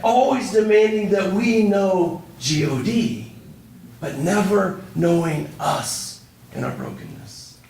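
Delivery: deliberate spelled-out G O D, pressed home; emphatic preaching. Real, not acted. Preacher's emphatic point on brokenness.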